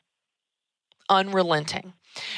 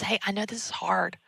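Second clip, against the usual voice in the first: soft, hushed reassurance; gentle whispered empathy; empathetic whisper; 6 dB quieter than usual. Shown as a demonstration. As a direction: whisper it kindly to someone struggling. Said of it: "yeah, empathize".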